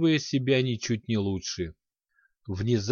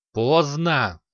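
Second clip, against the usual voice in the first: angry outcry, louder; furious shout; 3 semitones higher, 4 dB louder than usual. Acted. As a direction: shout it back in rage. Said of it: "разъярённо выкрикнул".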